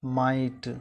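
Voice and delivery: माइट with the इ moved before ट; माइट, vowel shifted forward, मा-इट; correct Maithili. Shown as a demonstration. Teacher giving pupils the right Maithili माइट. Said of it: "Maithili में हम क्या उच्चारण करते हैं".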